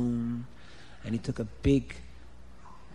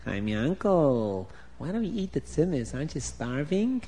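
tempting inner voice; 4 dB quieter than usual. Acted. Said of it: "A little voice came in his head".

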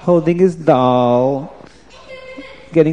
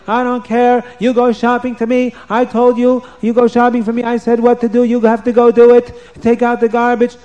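bossy queen; 7 semitones higher than usual. Acted. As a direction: lay down the law like a cruel queen. Vashti bosses the girls.

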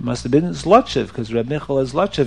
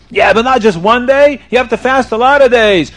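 raised, higher-pitched scolding; stern demand; 5 semitones higher, 4 dB louder than usual. Acted. Rabbi piles penance on a sinner, stern demand. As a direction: press him harder, allowing no excuse.

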